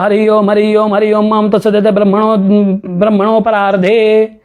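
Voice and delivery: level, formulaic Sanskrit ritual chanting; ritual sankalpa recitation. Shown as a demonstration. Teacher quotes what we say in the sankalpa, even ritual intoning. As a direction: intone it evenly, on one level pitch. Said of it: "हम लोग क्या संकल्प में बोलते हैं".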